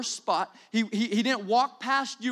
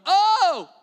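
mock shallow Christian; 3 dB louder than usual. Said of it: "walking around going".

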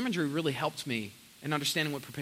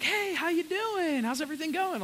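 imitating the waitress; 12 semitones higher than usual. Waitress greeting the pastor, chirpy high voice. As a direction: mimic a chirpy waitress saying hi. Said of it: "She's like".

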